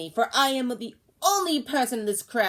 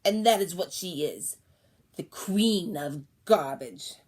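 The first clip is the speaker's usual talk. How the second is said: loud, accusing crone; yelling; 6 dB louder than usual. Acted. Old woman to crowd, loud accusing yell. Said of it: "she was suddenly yelling".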